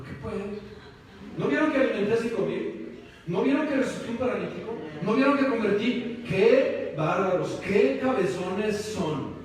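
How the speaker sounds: reproche exagerado, tono alto que se va alargando; regaña en broma, recalcando cada pregunta; regaño fingido. Pretend. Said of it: "¿Les dijo eso? ¿Les recriminó?". (regaño teatral e indignado)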